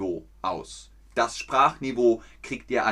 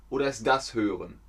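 quick quiz alternative; faster than usual. Shown as a demonstration. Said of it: "Was ist Hören?".

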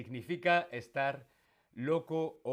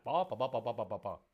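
chatter sound; 2 semitones lower, faster than usual. Shown as a demonstration. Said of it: "No paro de hablar".

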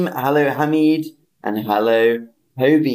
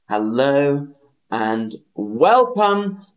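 drawn-out welcome; 2 semitones higher, slower than usual. Shown as a demonstration. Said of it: "teacher stretching welcome high".

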